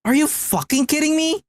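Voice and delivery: real playful horror at the nickname; mock outrage. Real, not acted.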